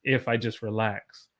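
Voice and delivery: easy, a touch deep and unforced; relaxed natural voice. Shown as a demonstration. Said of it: "is actually about this deep".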